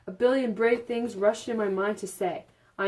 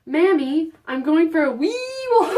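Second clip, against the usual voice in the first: bright, raised mock Irish lilt; mock Irish girl; 8 semitones higher, 7 dB louder than usual. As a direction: play the cheeky teen in an Irish lilt. Girl voiced in read fanfic.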